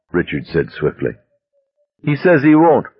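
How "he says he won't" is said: higher urgent call. Acted. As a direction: shout it across the road. Hostage calling out to police.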